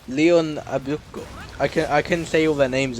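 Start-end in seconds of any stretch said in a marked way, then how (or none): 0.1-1.2 slow, hammed-up Italian accent. Shown as a demonstration. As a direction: savour the name in a mock Italian accent. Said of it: "I'm gonna do this in an Italian accent".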